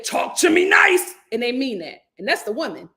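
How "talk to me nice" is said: high, slow, whispered-breathy demand; "Talk to me nice" drawn out, pitched up; imitating New Yorkers. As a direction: mimic a New Yorker setting terms. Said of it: "They literally say".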